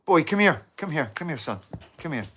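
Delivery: loud high call, then easing off; calling the dog. Real, not acted. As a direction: summon the dog, softening as it comes.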